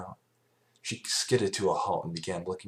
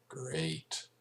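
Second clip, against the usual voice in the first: mumbled; 6 semitones higher, 6 dB quieter than usual. A narrator's reading. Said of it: "mumble from the creature".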